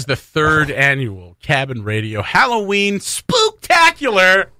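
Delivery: slow, drawn-out announcer build; event announcer. Acted. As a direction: announce it grandly, stretching the big word. Grand announcing of the show's event.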